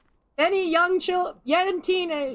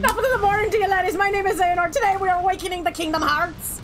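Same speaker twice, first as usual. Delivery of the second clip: bad Irish accent; 4 semitones higher than usual. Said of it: "I should not be allowed to have accent abilities".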